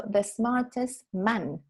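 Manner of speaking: "man" with an open a, said slowly; slow correction, "man" clearly not "men"; singular man. Shown as a demonstration. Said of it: "because it's one".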